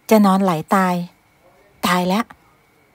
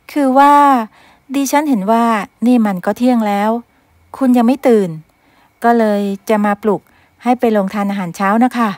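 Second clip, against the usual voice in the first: nervous maid; 2 semitones higher than usual. Acted. Maid explaining herself to the grumpy master. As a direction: nervously justify yourself.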